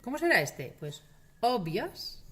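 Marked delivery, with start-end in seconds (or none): 1.4-2.2 "obvias" ending in i plus schwa and S; drawn-out "obvias", the ending reduced to ias. Shown as a demonstration. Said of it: "tiende a ser ia".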